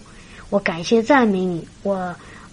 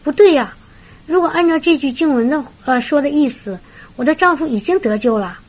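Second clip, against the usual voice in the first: retold dawning insight, brightening into certainty; mildly acted "wait a moment" discovery; sudden realisation; 3 semitones higher than usual. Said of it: "她突然说".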